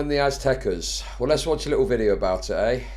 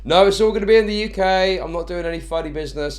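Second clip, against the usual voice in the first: mock defensive; 8 semitones higher, 5 dB louder than usual. Jokingly denies tax dodging.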